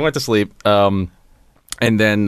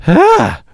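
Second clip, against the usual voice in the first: short high yelp, louder than his talk; imitated distant scream; 8 semitones higher, 6 dB louder than usual. Recreating the noise for friends, a high yelp. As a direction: mimic a faint cry in the night. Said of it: "it sounded like".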